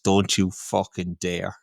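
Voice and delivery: slow, low and quiet menace; a hint of a cold, slow threat; cold low warning. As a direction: stare him down with a hushed threat. Manager's cold put-down retold.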